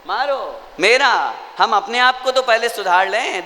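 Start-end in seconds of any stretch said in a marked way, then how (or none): 0.1-1.3 मारो and मेरा drawn out slowly; stress on मारो. Shown as a demonstration. Preacher pointing out the changed word, slow stress on मारो. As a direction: stretch मारो, then its meaning मेरा, pitched up.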